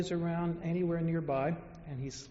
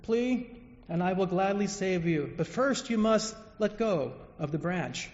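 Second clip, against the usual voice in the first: voice of God; 3 dB louder than usual. Acted. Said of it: "The voice says".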